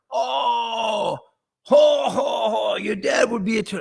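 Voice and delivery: high, loud hooting laugh-talk as Jimmy; imitating tall Jimmy. Host imitates Jimmy mocking his dad, high hooting voice. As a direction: ham up big Jimmy howling at the joke. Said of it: "and he talks like this".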